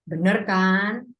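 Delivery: slow "Bener kan?" with rising end; told you so. Shown as a demonstration. Teacher showing "Bener kan" when proven right. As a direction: savour being right. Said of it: "intuisi kita benar".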